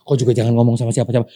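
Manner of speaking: fast, hushed-tone telling of a secret; quick gossip. Retold or imitated. Gossiping neighbour passes a secret along, fast. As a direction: rattle it off like passing on gossip.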